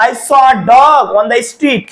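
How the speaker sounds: very slow, every word drawn out; slow dictation of an example; slow demo sentence. Shown as a demonstration. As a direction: read the finished sentence slowly. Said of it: "এখানে হয়ে যাবে এ".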